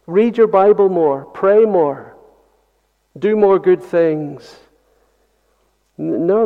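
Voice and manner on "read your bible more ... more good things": mock exhortation. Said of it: "the church has said".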